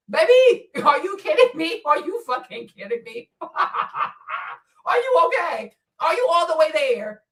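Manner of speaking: high, laughing disbelief; mock disbelief. Real, not acted. Streamer laughs at commenter in high mocking disbelief. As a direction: laugh at them in disbelief, pitch up.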